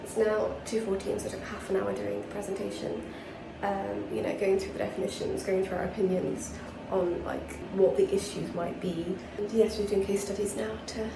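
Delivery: hushed, hiding in a bathroom; whispering while hiding. Real, not acted. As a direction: keep it low so nobody hears. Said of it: "I'm hiding in the bathroom again".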